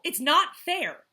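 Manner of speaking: high, loud and slow; slow loud sulk. Acted. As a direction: drag out "not fair" loudly. Jackal yells, slowed down.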